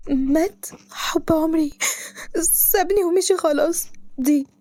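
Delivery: rising, slow disbelief; hysterical. Acted. Girl learns her love died, hysterical slow disbelief. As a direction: let the grief climb into hysteria. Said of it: "وهي بتقول بهستيريا".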